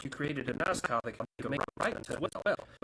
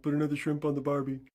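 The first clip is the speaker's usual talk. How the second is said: quick mock-Aussie catchphrase; attempted Australian accent; faster than usual. American jet showing off a new accent, mock Australian. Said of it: "I'm gonna get an accent".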